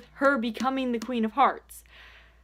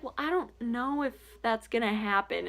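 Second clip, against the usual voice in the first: softer, doubtful mock of a gloomy friend; pessimistic doubter; 6 dB quieter than usual. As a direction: mimic her gloomy doubt. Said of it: "she's very pessimistic".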